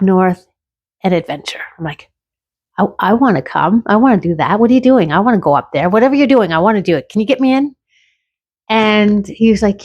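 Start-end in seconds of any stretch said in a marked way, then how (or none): 2.8-7.8 rising, eager plea climbing higher; eager begging. Retold or imitated. Retelling how she begged her friend to get her in, eager and pleading. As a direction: beg your friend to take you along.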